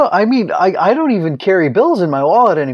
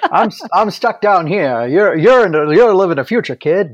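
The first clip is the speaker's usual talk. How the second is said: 1920s gangster impression; 5 semitones higher than usual. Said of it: "talking like a nineteen twenties gangster".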